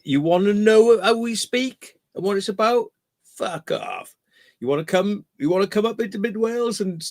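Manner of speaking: high, fast, sneering mock local; mocking Welsh locals. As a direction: play the hostile local telling outsiders to clear off.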